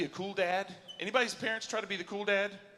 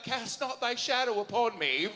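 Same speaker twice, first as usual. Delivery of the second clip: slow, lightly theatrical Shakespeare line; mock Shakespearean; 2 semitones higher than usual. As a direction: declaim it like hammy Shakespeare, with restraint. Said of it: "it comes out like Shakespeare".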